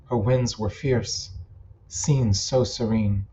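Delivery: measured verse recital, pausing after each line; poem reading. Acted. Poet rereading a favorite poem from the top, measured recital. Reads own poem aloud.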